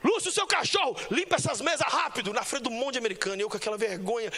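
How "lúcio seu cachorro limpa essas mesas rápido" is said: high, loud barked order at the busboy; boss yelling. Retold or imitated. American boss scolds busboy at work: loud angry yell. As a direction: yell it like a rude boss in front of everyone. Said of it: "o patrão americano chegou e falou assim".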